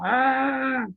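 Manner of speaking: acted growl of rage; demonstrated angry growl. Shown as a demonstration. Parent showing a child what anger is, growl. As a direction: let out a mock angry "aah". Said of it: "assim, ó".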